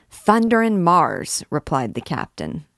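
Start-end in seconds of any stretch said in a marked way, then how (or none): 0.1-1.4 loud, slow, higher oath; booming captain's curse; swearing loudly. Acted. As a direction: bellow Thunder and Mars like a soldier.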